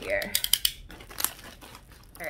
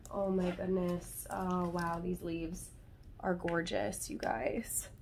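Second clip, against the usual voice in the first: soft, hushed admiration; hushed awe; 6 dB quieter, slower than usual. Real, not acted. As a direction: marvel quietly at the leaves. Admiring plant leaves.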